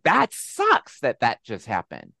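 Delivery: mild, drawn-out mock call; retold yell. Calling to a frustrated driver at the trash gate, mild yell. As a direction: call out a little, stretching the opening words. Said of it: "I just quickly yelled out".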